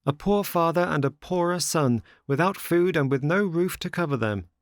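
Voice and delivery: put-on high, plaintive young puppet; high-pitched, earnest plea; pleading Pinocchio. A narrator's reading. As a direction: appeal in a high little voice. Pinocchio answers at door.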